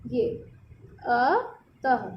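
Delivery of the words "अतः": अतः ending in a breathy h; visarga demo. Shown as a demonstration. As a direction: release अतः on an h. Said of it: "वर्ण के आखिरी में आया है ना ये".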